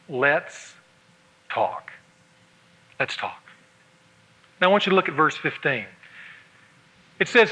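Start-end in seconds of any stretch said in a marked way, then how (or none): 0.1-1.9 much softer and lower, slow; soft weighty words. Shown as a demonstration. Preacher giving husbands the two key words, softly. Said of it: "knows the value of two words". 3.0-3.4 near-whispered repeat, low and soft; softer echo. Shown as a demonstration. Preacher repeating the phrase to the men, barely audible. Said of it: "knows the value of two words".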